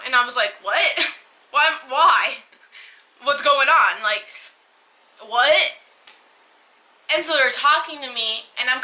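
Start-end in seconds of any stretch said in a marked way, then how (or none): 0.6-5.7 retold freak-out. Waking in the ambulance, asking paramedics what happened, mock panic. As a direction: reenact waking up confused and panicking. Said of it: "I'm freaking out".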